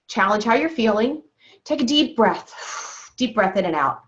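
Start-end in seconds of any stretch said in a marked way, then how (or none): 1.6-4.0 very slow and drawn out, with a sigh; slow deep breath. Shown as a demonstration. Coach guiding the class through a breath, slow with a sigh. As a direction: ease into it slowly, breathing out with a sigh. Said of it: "and it's slow".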